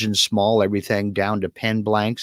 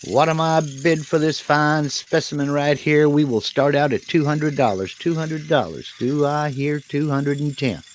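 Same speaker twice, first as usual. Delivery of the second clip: auctioneer; 4 semitones higher than usual. Acted. Host plays auctioneer selling piece.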